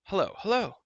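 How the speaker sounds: loud echoing hello; shouting call. A narrator's reading. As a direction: call out across the cavern. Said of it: "he shouted once more".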